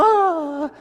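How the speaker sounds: high, drawn-out imitated wail; mock wail. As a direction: imitate a crying sister with one long "aah". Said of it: "la otra hermana estaba chillando".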